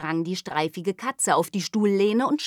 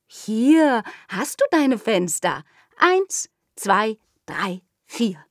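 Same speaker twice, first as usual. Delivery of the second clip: put-on louder, higher counting child; eager little girl; 4 semitones higher, 4 dB louder, slower than usual. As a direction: count the windows out brightly.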